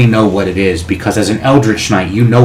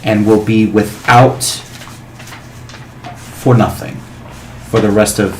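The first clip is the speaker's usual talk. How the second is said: booming dragon voice. Acted. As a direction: grant the wish like an ancient dragon. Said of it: "with that booming voice".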